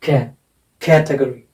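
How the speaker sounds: कैटेगरी with कै said hardest, the rest tapering off; कैटेगरी, front-stressed as a teacher's demo; stress on first syllable. Shown as a demonstration. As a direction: punch the कै in कैटेगरी, let the ending fade. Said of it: "सबसे ज़्यादा ज़ोर".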